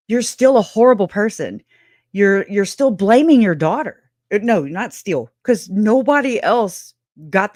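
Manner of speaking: loud, heated accusation; angry. Real, not acted. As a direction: call her out hard. Angry rant at Lori.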